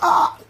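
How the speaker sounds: a short loud mock yell of excitement; a quick hammed-up shout of joy; imitated scream. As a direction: let out the stifled fan's scream you held back. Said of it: "trying so hard not to just scream out loud".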